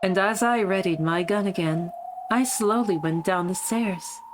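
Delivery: lightly faked British accent; a hint of put-on posh British; Beatrice. Streamer voicing the wrong character, lightly faked British accent. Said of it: "my shitty Beatrice voice for her".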